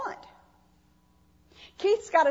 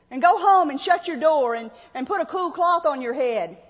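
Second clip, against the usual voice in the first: mock petting; 4 semitones lower than usual. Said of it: "you pet him and you say".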